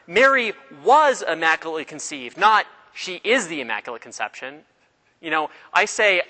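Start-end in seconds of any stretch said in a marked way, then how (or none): 0.1-2.4 "was" stressed to correct the wording. Retold or imitated. Correcting a mistaken wording by contrast. 2.4-4.6 "is" picked out as the mistaken word; stress on IS. Retold or imitated. Rejected wording set against the right one.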